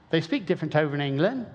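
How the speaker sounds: imitating a British accent; tentative mock British accent; attempted English accent. Shown as a demonstration. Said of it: "can get that accent just right".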